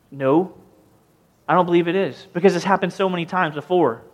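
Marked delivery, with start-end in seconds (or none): none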